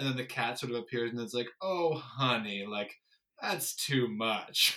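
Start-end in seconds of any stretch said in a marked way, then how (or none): 1.6-4.7 lazy, very slow, put-on Southern drawl. Retelling what the depression cat says: imitating a cat with a southern drawl. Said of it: "this cat with a Southern drawl".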